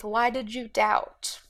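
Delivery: slow hushed whisper. Acted. Jesus rebuking Peter on the water, whispered slowly. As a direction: breathe the question slowly.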